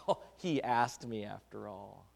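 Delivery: chuckled self-satisfied excuse; laughing mock relief. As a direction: laugh it off like a smug gossip. Gossip laughing, self-justifying.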